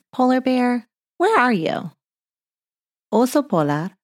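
playful call into the distance. Acted. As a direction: call for the bear as if searching. Calling out for the bear.

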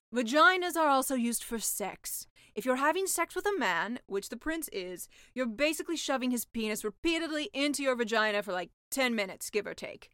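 deadpan the gross detail; sea witch voice. Acted.

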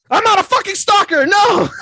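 high, loud frantic protest; frantic yell. Acted. Kaguya denying she's a stalker, frantic high yell. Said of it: "And then she's like".

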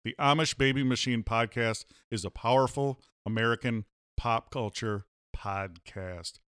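punchy, grandiose show opening; podcast intro announcer. Acted. Host welcomes listeners to the show, grand announcer delivery. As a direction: announce it like the most powerful show ever.

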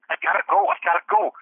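high, urgent dog voice pleading; voicing the dog. Dog Bandit begging to be let out, high and urgent. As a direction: squeak it out like a desperate pup. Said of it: "Bandit's like".

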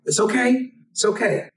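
lightly acted comforting, slowing into the advice; retold reassurance. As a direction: imitate an uncle calming an upset child. Uncle reassures crying child in story.

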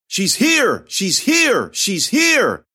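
high, loud sing-song call; eerie announcing call. A narrator's reading. Possessed girl betraying the heroine, a loud eerie cry. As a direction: cry out like a chanting crowd. Crowd chanting as one.

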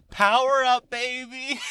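loud, high hype call; hype shout. Pretend. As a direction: pump up the party like a cheerleader. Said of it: "And I'm like".

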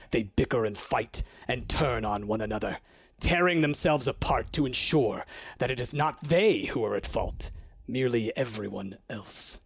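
a lightly voiced wrathful god; solemn god's decree. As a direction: pronounce doom like a weary deity.

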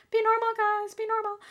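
high, strained hushed plea; mock urgent whisper-plea. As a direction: urge your friends to act normal. Ladies urging each other calm.

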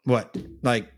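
low, nonchalant, shrugging it off; unbothered toddler. Retold or imitated. A toddler shrugging off a spanking, low and unbothered. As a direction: act like nothing happened, then rush away. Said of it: "she's like".

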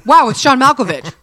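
over-enunciated, every word crisp and loud; John Malkovich impression. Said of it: "don't you do a good John Malkovich impression".

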